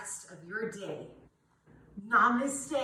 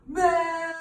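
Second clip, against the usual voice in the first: tongue out; 6 semitones higher, 8 dB louder than usual. Shown as a demonstration. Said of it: "we're gonna stick out our tongues".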